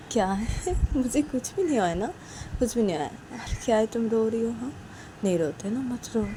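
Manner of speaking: calm someone who is in tears; soothing Sanju. Acted. Sanju telling Uma not to cry, soothing.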